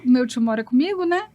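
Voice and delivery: high imitated child voice; lightly done little girl. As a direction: voice the daughter's cheeky plan. Daughter's replies voiced.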